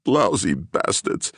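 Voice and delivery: slow, sobbed curse; sobbing. Acted. Gerlich sobbing curses while held by policeman. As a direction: drag it out through sobs. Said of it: "Gerlich sobbed".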